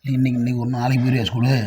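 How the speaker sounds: soft, low pleading question; gentle coaxing. Real, not acted. Parent gently coaxes child about school.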